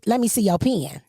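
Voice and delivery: PEN drawn into "pee-in"; country pen. Retold or imitated. Host retelling her request to coworker, PEN as country "pee-in". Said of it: "It was country pen".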